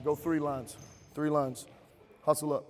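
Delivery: barking gym coach. Real, not acted. Coach calling players into lines.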